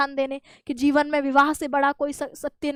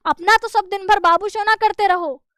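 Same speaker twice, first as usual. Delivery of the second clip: flaring up; 5 semitones higher, 4 dB louder than usual. Retold or imitated. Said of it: "Dwivedi जी बिल्कुल भड़क उठे".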